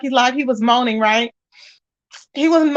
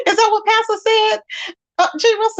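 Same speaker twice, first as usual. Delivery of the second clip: laughing; 9 semitones higher than usual. Real, not acted. Amused reaction to viewer's joke.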